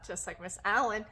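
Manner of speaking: ordinary delivery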